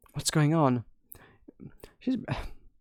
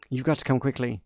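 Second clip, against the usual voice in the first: plain read of the servant; 3 semitones lower, 3 dB quieter, faster than usual. Acted. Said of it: "smushed two conversations together".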